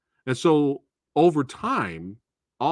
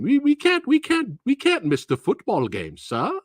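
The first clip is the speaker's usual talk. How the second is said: pleading mock-polite pupil, much higher; overly polite student; 5 semitones higher than usual. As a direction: whine politely at the teacher, pitched up. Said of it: "this is how they talk to you".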